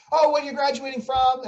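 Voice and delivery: eager question. Retold or imitated. Quoting the eager dancer.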